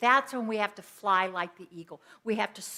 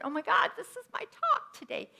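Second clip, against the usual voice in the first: excited; 13 semitones higher than usual. Retold or imitated. Excited realization retold.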